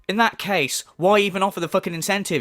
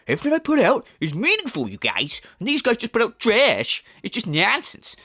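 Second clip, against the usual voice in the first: mocking impression; 3 semitones higher than usual. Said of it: "he is saying, like".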